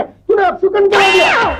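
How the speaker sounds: high-pitched cry of blame; superstitious panic turning to accusation; accusing outburst. Acted. Blames other for bad omen.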